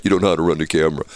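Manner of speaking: fast, low brush-off; dismissive disbelief. Retold or imitated. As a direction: rattle it off as if not buying it. Neighbour disbelieves him, dismissive.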